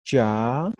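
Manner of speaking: plain "cha" as in Spanish; simple CH. Shown as a demonstration. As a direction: say "cha" simply, no puff or pop. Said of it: "simples es igualito que el castellano".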